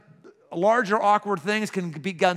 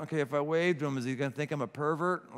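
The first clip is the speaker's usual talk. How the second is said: nervous hesitant muttering; 3 semitones lower, 6 dB quieter, faster than usual. Retold or imitated. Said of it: "going like".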